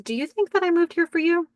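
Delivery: a touch of irritation, thrown back at him; a little pissed. Retold or imitated. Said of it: "She's a little pissed".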